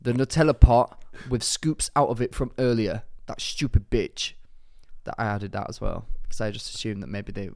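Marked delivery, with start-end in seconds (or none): 0.0-4.3 lightly put-on London roadman accent; attempted roadman accent. Reading a listener's letter as requested, in attempted roadman accent. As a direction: read it out in a half-hearted roadman accent. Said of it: "do it in a roadman accent".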